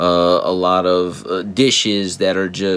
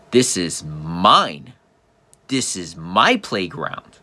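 slow, lower, teasing claim; mock possessive; 3 semitones lower, slower than usual. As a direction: drag it out like a toddler's claim. Teasing the toddler, copying her claim.

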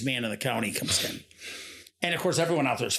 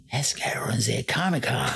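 hushed, gossipy stage whisper; 3 semitones lower than usual. Retold or imitated. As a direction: whisper it like small-town gossip. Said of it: "like, whisper".

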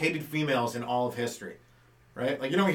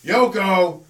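name shout; 4 semitones higher, 8 dB louder, slower than usual. Pretend.

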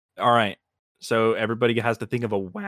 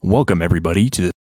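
podcast host voice; 2 semitones lower, 5 dB louder, faster than usual. Pretend. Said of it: "that talk show host voice".

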